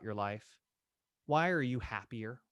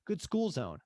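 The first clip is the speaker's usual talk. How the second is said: mock humble agent; 5 semitones higher than usual. Shown as a demonstration. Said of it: "don't tell 'em you know nothing".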